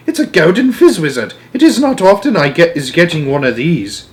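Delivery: high eager boast; proud excitement. A narrator's reading. Giant tells Sophie how rare the dream is, high and proud. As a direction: show off the prize.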